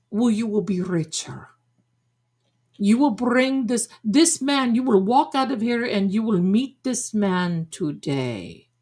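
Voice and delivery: put-on Madame Blavatsky accent, insistent; fake psychic accent. Psychic predicting a meeting today, fake accent. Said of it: "mine is fake".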